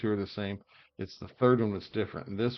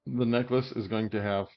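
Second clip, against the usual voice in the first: talking through hiccups. Real, not acted. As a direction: hiccup between words. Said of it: "get the hiccups".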